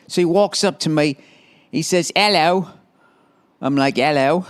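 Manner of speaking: lightly put-on English accent; a silly take on English speech. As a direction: tell it in a mock English voice. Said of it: "why she has an English accent".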